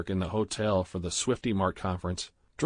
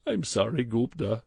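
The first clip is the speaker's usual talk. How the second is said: pleading; 2 semitones higher than usual. A narrator's reading. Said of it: "Badrul pleaded".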